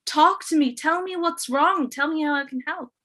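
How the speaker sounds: pleading. Acted. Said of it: "he started begging her".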